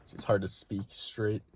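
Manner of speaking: talking around spit, slightly lispy; lispy, spit in mouth. Real, not acted. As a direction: mouth full of spit, lisping a little. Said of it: "why do I have so much spit in my mouth".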